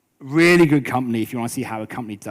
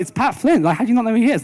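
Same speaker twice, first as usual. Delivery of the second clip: high, louder mock incredulity at his ignorance; incredulous crowd; 10 semitones higher, 5 dB louder, faster than usual. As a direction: scoff at him for not knowing the famous guy. Crowd incredulous he doesn't know.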